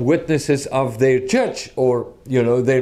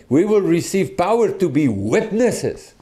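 "witnesses" picked out as the key word; stress on witnesses; 5 semitones higher than usual. Retold or imitated. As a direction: lean on "witnesses" at the end. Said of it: "place the emphasis on witnesses".

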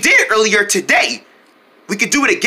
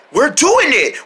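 raised, cheering effort; excited triumph; 5 semitones higher, slower than usual. Pretend. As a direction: cheer the team on mid-lift. Group succeeds in lifting.

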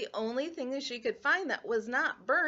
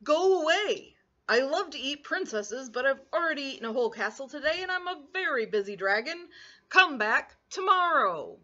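higher, louder impatient dragon, slowing on the last line; grumpy dragon; 3 semitones higher, 5 dB louder than usual. Acted. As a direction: shoo her away as a busy dragon. Dragon voice in story.

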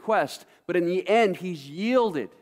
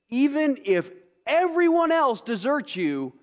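Peter's bold vow; 8 semitones higher, 3 dB louder than usual. Acted. Peter's vow read dramatically.

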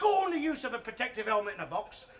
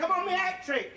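quicker repeat; 8 semitones higher than usual. Retold or imitated. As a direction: toss off "I'm on my hat trick" fast as an afterthought. Repeats the boast.

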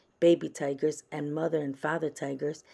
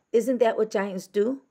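put-on high, louder child voice; little girl voice; 7 semitones higher, 6 dB louder than usual. A narrator's reading. Francis answers her father about giants, high child voice. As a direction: ask it like an earnest small girl.

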